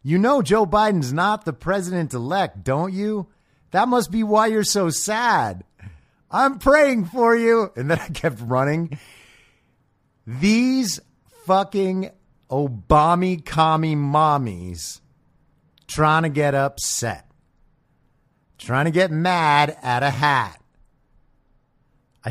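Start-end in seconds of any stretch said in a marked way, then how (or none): 0.0-7.7 high, slow, syrupy fake pity; mock sympathy. Taunting the lady who insulted his hat, mock pity. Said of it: "And I go". 10.3-20.6 sneering rant. Retold or imitated. Ranting about the women.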